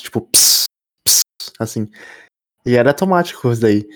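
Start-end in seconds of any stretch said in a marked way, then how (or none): 0.2-1.9 turbo hiss. Retold or imitated. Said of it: "tipo, um negócio".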